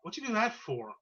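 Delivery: put-on queasy, high-pitched drunk complaint; sick from the sudden stop; nauseous drunk. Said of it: "Josh gets a little nauseous".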